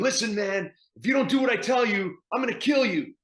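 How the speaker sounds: shrill, very high, loud scream carrying far. Showing how to play the line from twenty feet away: screaming threat.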